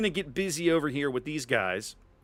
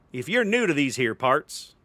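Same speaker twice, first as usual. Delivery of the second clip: lightly put-on Western accent. Shown as a demonstration. Streamer greets newcomers to match a Western theme, attempted Western accent. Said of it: "Should I do this with an accent?".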